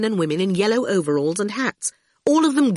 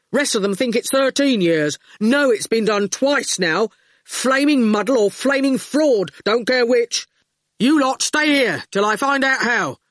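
angry goon rant; 2 semitones higher than usual. Acted. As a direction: rant it out at the prisoners.

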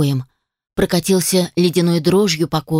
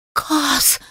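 startled high cry of a name; frightened call; 7 semitones higher, 3 dB quieter than usual. A narrator's reading. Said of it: "Испуганный голос Хелен". (испуганный окрик)

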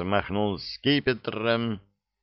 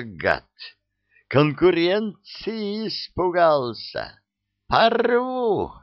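rising from tense to furious roar; building fury; 7 semitones higher, slower than usual. A narrator's reading. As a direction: build until he erupts on Порву. Vampire's rage builds.

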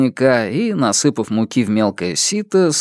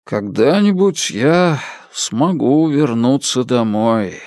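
wistful; slower than usual. Acted. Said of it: "задумчиво проговорил он".

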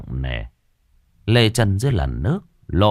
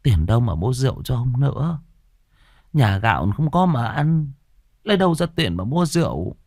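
higher, faltering protest; startled faltering; 5 semitones higher than usual. Acted. Startled wife answers her drinking husband about money, faltering. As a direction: falter nervously, voice pitched up. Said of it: "bà giật mình quay sang mà ấp úng".

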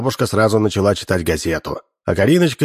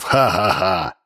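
sinister mocking ha-ha-ha; a gloating villain's cackle; evil villain laugh; slower than usual. A narrator's reading. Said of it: "Зловещий хохот матёрого преступника".

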